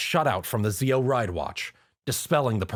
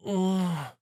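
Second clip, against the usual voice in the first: groan; 9 semitones higher than usual. Acted. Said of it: "Pinkie groaned".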